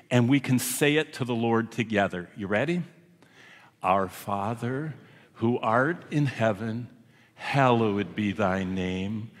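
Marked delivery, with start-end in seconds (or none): 3.8-9.3 slow, reverent prayer recitation; slow recited prayer. Acted. Preacher leading the congregation in the Lord's Prayer, slow and reverent. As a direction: pray it slowly and solemnly, word by word.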